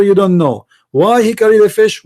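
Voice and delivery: ordinary delivery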